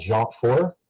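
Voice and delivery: "Jant four" with a light French accent; attempted French accent. Shown as a demonstration. Student naming a physics toolkit, attempted French accent. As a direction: try a French pronunciation on the toolkit name. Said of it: "my attempt at saying it with a French as-, accent".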